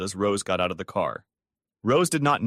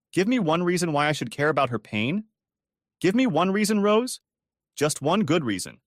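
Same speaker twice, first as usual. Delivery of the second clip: pleading; 6 semitones higher than usual. A narrator's reading. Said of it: "Tom pleaded".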